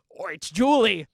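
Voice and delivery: loud, high laughing quip; laughing joke. Real, not acted. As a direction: laugh the line out.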